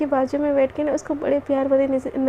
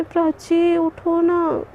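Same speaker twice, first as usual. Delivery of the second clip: very slow, stretched-out plea; drawn-out coaxing; 2 semitones higher, much slower than usual. Acted. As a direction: drag each word out to coax a sleeper. Coaxing sleeping wife once more.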